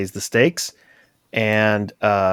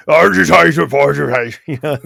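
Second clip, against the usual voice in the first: put-on Irish lilt accent; 3 semitones higher, 5 dB louder than usual. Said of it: "Irish lilt accent".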